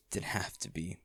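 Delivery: barely voiced whisper; whispered to a lover in a hospital bed. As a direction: let it fall away into a whisper. Tender memory at bedside.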